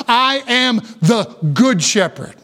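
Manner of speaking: slow, spaced words with weight on "good"; deliberate emphasis on "good"; stress on GOOD. Shown as a demonstration. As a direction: set each word apart and lean on "good". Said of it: "Emphasis on the word good".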